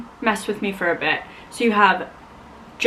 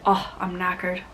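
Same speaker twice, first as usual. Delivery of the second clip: light British accent on knackered; mock British accent; 2 semitones lower, 5 dB quieter than usual. Shown as a demonstration. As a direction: try a soft British accent. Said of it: "you say".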